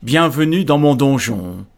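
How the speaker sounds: loud menacing ogre welcome; booming demon lord; growling ogre voice. Acted. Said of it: "Des grognements sourds ponctuèrent".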